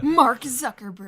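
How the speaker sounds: slow, drawn-out name in imitation; Game Grumps catchphrase. Fan quoting a Game Grumps bit, drawn-out imitation. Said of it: "have to say it like that".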